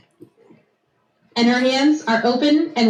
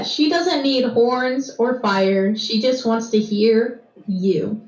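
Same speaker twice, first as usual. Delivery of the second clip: slow repeat; slower than usual. Shown as a demonstration. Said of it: "can the statement be repeated".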